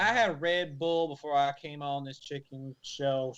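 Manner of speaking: put-on hammy Southern cook accent. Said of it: "fake Southern accent".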